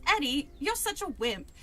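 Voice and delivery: put-on failed British accent drifting into Valley Girl; wobbly mix of British and Valley Girl accents; British slipping Valley Girl. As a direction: read with a Valley Girl lilt creeping in. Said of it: "like, a Valley Girl accent".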